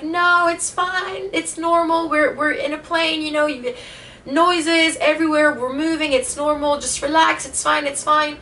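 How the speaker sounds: high-pitched voice of a calming mother; reassuring mom. Retold or imitated. Mom calming her scared kid on a plane, imitated in a high voice. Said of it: "trying to calm me".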